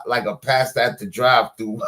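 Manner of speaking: shouting through laughter; laughing. Real, not acted. Laughing at her drive-through pastor joke, shouting. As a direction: crack up mid-line.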